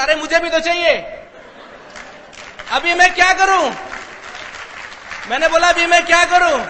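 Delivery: high, loud, helpless protest; panicked exasperation. Retold or imitated. Realising he has no sponsor, loudly panicked. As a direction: build to a shouted, helpless plea.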